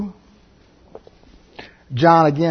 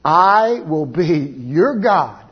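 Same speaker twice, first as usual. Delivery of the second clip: slow, lightly voiced divine promise; solemn quote of God, drawn out; God's voice; 3 dB louder, slower than usual. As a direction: pronounce it slowly, each word weighted. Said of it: "the first time God ever said".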